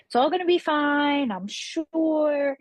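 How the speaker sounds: a touch of husband's bright cheer, pitched a bit up; imitating him calming her down, lightly; upbeat reassurance. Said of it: "He's the most positive person you'll ever meet".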